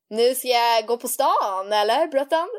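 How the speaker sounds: slow, drawn-out posh phrasing; mom's posh friend voice. Retold or imitated. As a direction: mimic mom putting on a trendy voice. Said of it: "hon blir så här".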